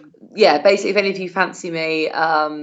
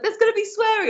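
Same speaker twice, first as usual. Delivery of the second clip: mock announcement; 13 semitones higher, faster than usual. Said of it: "I was like".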